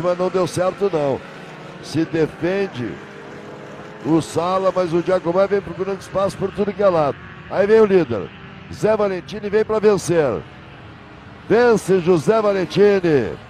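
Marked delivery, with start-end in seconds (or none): 5.5-13.4 excited finish call. Real, not acted. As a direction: call the win with a rising voice. Calling the race winner.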